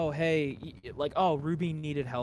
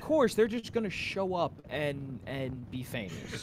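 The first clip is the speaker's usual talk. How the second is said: laughing. Real, not acted. Mocking the fic while laughing.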